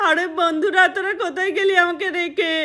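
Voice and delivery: put-on a child wailing after his fall; crying child. Keltu, left alone after his fall, crying for his friends. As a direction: cry out for the friends who left you. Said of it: "দেখ এখন কাঁদছে বসে বসে".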